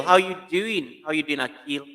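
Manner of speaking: normal talking voice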